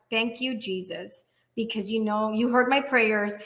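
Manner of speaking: whisper-soft thanks upward; soft grateful prayer. Retold or imitated. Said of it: "I look up and I'm like".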